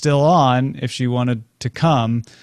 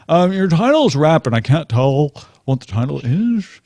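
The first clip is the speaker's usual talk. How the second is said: Thurston Howell voice; 3 semitones higher than usual. Retold or imitated. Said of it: "they all speak like Thurston Howell".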